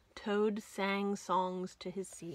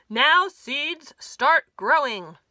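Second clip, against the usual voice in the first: full shout, much louder and higher on Now; 5 semitones higher, 14 dB louder, slower than usual. Acted. Toad shouting at his seeds in frustration, full shout. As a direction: yell at the seeds to grow.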